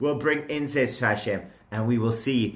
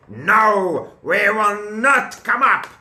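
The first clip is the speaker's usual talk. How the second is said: loud, higher, stubborn no; defiant refusal; 4 semitones higher, 3 dB louder than usual. Acted. The rebels defiantly refuse Moshe, loud and stubborn. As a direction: refuse flatly and loudly.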